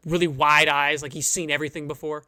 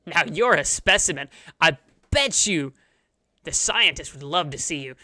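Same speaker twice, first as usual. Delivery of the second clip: amazed frog; 4 dB louder than usual. Acted. Frog greeter marvelling at the huge adventurer, lightly voiced. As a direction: marvel at the giant hand. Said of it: "he grabs your hand and goes".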